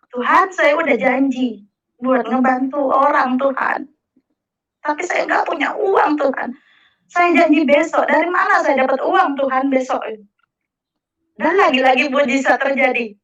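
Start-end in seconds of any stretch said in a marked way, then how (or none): 0.1-10.0 retold anxious prayer. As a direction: beg for help, worried and earnest. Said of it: "saya berdoa".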